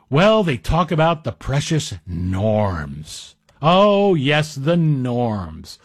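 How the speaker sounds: slow, sneering sarcasm; sarcastic. Real, not acted. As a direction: drawl it out mockingly. Mocking critics' precious norms.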